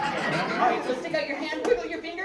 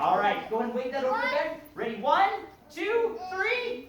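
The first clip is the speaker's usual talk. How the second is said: put-on kids party magician; 5 semitones higher, 3 dB louder than usual. Magician counts down trick.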